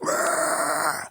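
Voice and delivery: put-on loud, strange yowling meow to drown the kid out; out-yowl the screaming child. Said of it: "you scream louder".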